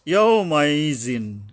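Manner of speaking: "ইয়াও মাইজিন" recited slowly with a light y; thin careful ya. Shown as a demonstration. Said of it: "ইয়ার উচ্চারণে সাবধান হতে হবে পাতলাভাবে".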